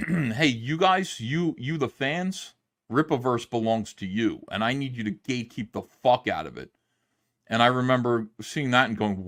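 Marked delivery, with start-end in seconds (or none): 0.1-6.7 a hint of a hammed-up rallying cry; mock Eric July pep talk. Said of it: "his attitude in general, uh, was initially".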